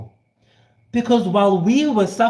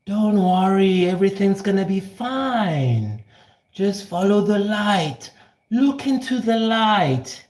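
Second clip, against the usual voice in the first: soothing reassurance. Acted. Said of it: "you must say".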